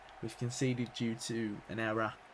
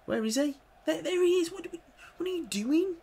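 very high, loud disbelieving shout; exasperated yell; 7 dB louder than usual. Real, not acted. Manager yelling at a defender out of position, high and loud. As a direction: scream at the player out of position.

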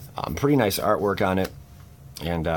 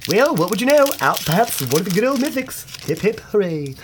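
excited; 12 semitones higher, 5 dB louder than usual. Real, not acted. Mythic pops after complaining.

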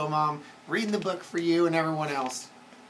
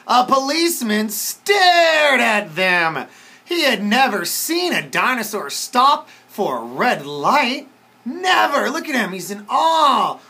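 put-on reading to children; 5 semitones higher, 6 dB louder, slower than usual. A narrator's reading. Reads story to children.

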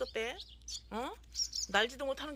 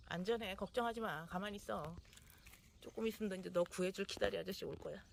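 reassuring; 3 semitones lower, 4 dB quieter than usual. Real, not acted. Comforting fallen baby bird.

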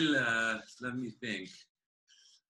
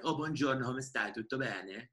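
Florentine accent, growing softer; softer Florentine buongiorno; 5 dB quieter than usual. Shown as a demonstration. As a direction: greet them the Florentine way, fading away. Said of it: "In Florence, it's like".

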